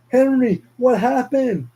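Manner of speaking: high, loud cry of alarm; alarmed shout. Acted. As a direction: yell out in shock. Father finds son dead.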